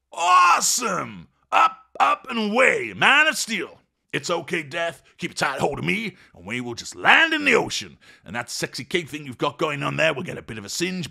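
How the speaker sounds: very high, loud superhero whoop; thrilled shout. Acted. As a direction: yell it like he's flying.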